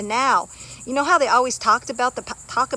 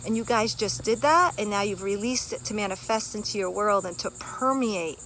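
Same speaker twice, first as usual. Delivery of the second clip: guided meditation; 3 semitones lower, 11 dB quieter than usual. Acted. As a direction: breathe them gently into calm. Leads a breathing meditation.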